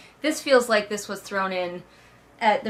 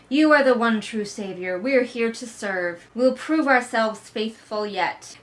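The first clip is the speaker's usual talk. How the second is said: slow, solemn hammed-up devotion; mock gushing servants. Servants pledging loyalty to Layla, slow mock devotion. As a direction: lay the loyalty on thick and slow. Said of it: "people gushing over Layla".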